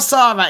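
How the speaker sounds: "Sarah" with an open ah, SAH-ra; pronounced SAH-ra. Shown as a demonstration. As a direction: say "Sarah" as SAH-ra, not SEH-ra. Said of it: "If it's spelled with H and H".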